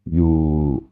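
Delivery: "You" with a long, held vowel. Shown as a demonstration. Teacher shows learners the Thai verb "You", long vowel. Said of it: "qui est une voyelle longue".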